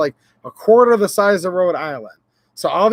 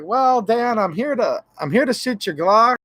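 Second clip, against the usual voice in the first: playful, higher-pitched hello; mock-casual turning up on a friend's doorstep; pretend arrival greeting; 4 semitones higher than usual. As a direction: announce yourself like a hopeful uninvited guest. Acts out turning up at Dan's.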